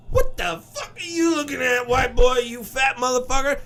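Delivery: high shouted angry black woman voice; black woman impression. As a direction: snap back at the white guy staring. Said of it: "what did the black girl say".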